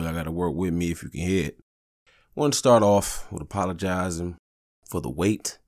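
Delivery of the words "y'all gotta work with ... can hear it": hiccuping while talking; with hiccups. Real, not acted. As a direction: hiccup through the line. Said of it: "I got the hiccups".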